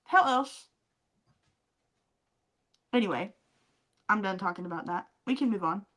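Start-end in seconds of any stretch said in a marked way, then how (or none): 0.0-0.7 rising, incredulous demand; indignant retort. Retold or imitated. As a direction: throw the question back at her, half-mock. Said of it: "I'm like".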